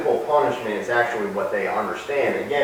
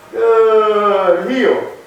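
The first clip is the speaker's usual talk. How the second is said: louder praise to the dog; 6 semitones higher, 5 dB louder, much slower than usual. Real, not acted. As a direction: cheer the dog on loudly.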